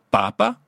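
papa, accent sur la première syllabe, p simple; papa accent initial. Shown as a demonstration. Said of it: "avec l'accent au début". (papa dit pàpa, p simple)

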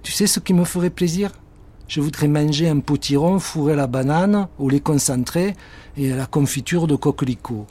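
a hint of a greedy child; character voice. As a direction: ask sweetly for a treat. Character voice in story.

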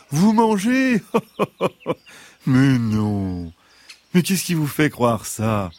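high fox voice with a little laugh; amused fox voice. Acted. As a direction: laugh off the idea, as the sly fox. Fox denies wanting to eat.

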